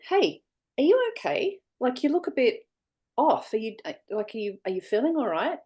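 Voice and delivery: very high, faked worried check-in; mock concern. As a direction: pretend to fuss over a student. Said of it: "and I said".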